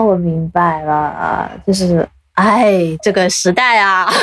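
slow, drawn-out, resigned; resigned sigh. Real, not acted. Host sighing slowly over how things are now. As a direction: let it sag slowly, sighing at the times.

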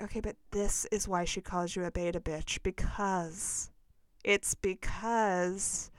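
slow, exasperated put-down at a podcaster; exasperated retort. Retold or imitated. Retold rant at a podcaster, slow and scornful. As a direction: spell out the scorn slowly, like talking to a fool.

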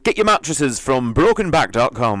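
hammed-up commercial voiceover; mock advert. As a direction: sell it like a cheesy commercial. Performing a mock advertising break.

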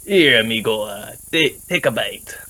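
put-on light Spanish accent, easygoing; lightly voiced Spanish accent; Spanish-accented character. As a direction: offer it like a friendly Spanish-accented traveller. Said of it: "I'll say".

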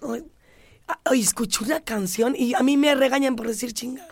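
hushed confession of a rude word; whisper. Real, not acted. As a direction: whisper it so nobody hears. Confessing rude song lyric. (susurro apenado)

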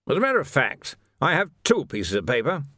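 a hint of a pompous officer; lightly voiced blustering captain. Captain correcting his prisoner, lightly voiced officious officer.

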